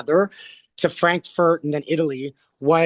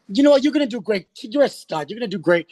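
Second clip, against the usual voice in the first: imitated pep talk, starting higher; encouraging; 4 semitones higher, faster than usual. Stars tell him he'll do great, imitated encouragement. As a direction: open emphatically, then settle as you reassure.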